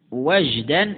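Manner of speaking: وجدا with a short a, "wajdan"; a vowel on waw. Shown as a demonstration. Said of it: "مثلث الواو".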